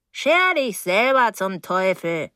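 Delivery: drawn-out, offended retort; huffy older neighbour. Acted. Mrs Deering retorts to the young man, huffy and drawn-out. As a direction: throw it back, stretching the words.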